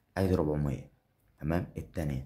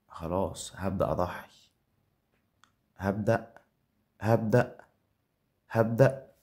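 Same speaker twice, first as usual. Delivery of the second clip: building hype; 3 semitones higher, 6 dB louder than usual. Real, not acted. Streamer hyping himself up before the spin, rising excitement. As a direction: rev yourself up, word by word.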